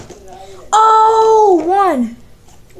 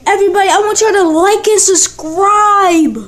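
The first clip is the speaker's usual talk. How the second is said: excited; 3 semitones higher than usual. Real, not acted. Still thrilled after landing.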